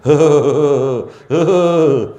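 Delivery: loud, drawn-out comic moans; hammed-up wails of pain; mock toothache groaning. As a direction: groan like an exaggerated toothache sufferer. Mimics toothache sufferer groaning in mosque.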